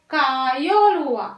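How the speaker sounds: कायोल said slowly with a long aa; slow mistaken कायोल; wrong form. Shown as a demonstration. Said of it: "wrong है". (गलत उच्चारण कायोल)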